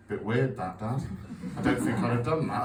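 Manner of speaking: a lightly voiced dry sarcastic teen; sarcastic son's voice. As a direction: tease Dad with mock concern. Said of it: "put on his little sarcastic voice".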